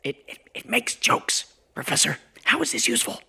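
stammering, high-pitched protest; exasperated disbelief. Acted. Aaron protests to the professor about a joking phone, exasperated disbelief. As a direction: sputter in dismay, pitch climbing.

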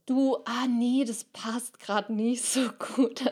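slow, whiny scaredy-cat voice; whiny shirker. Acted. Timid inner voice dodging an awkward talk, slow and whiny. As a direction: drag it out like someone dodging the task. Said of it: "so ein drücki und so ein schissi".

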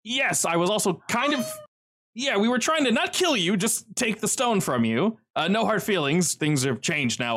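high, gushing reunion voice, breaking into laughter; overjoyed to see an old face again; excited Philip. Acted. Philip explains his past.

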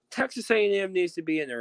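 high mocking voice of a casual fan; high-pitched imitation of a clueless fan. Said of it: "the casual fans are not gonna be like".

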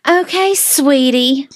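imitated belittling endearment; mock condescending. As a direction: talk down to them, drawn out. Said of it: "someone's being derogatory towards me".

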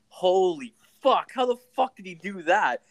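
retold astonishment. Hockey teammate reacting to Letterkenny exploding, retold astonishment. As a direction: act out being floored, stretching the first words. Retelling own astonishment at news.

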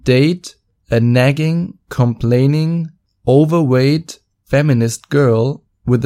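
slow, pointed, rising list of insults; cutting put-down. Retold or imitated. Telling the feminist date why she can't find a man, slow and cutting. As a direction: spell out each word slowly to rub it in. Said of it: "That's how I said it to her".

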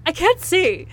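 lightly mocking high-pitched complaint; mock Libby. Fan mocking Libby in sunglasses, high mock complaint.

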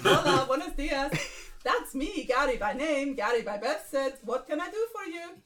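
attempted Spanish accent, slightly lifted pitch; Gary. Gary welcomes a newcomer, in a Spanish accent. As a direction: put on a lilting Spanish accent. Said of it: "Gary Spanish".

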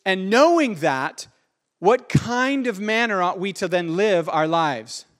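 earnest slow preaching. Real, not acted. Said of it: "you don't hear me preach like this".

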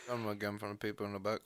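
chewing while talking; words round a mouthful; mouth full. Real, not acted. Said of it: "You not eat on the podcast".

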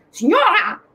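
put-on high, loud German-accented Italian. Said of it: "italiano con accento tedesco".

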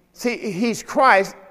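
drawn out, weighted words; slow emphasis. Acted. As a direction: land each word slowly. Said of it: "slow emphatic statement".

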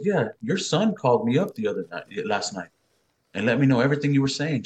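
imitated wife laying out the evidence; angry confrontation. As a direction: act out an accusing wife. Mother confronting father with evidence.

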